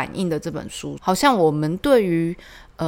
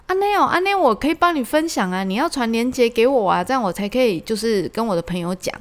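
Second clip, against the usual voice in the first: eager dad; 5 semitones higher than usual. Retold or imitated. Father eager to share link.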